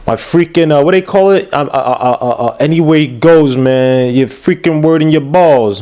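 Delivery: badly faked Italian-American mobster accent; terrible Italian accent. Host aping the reporter's voice, bad Italian accent. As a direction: fumble through a hammy Italian gangster accent. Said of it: "That was a terrible Italian accent".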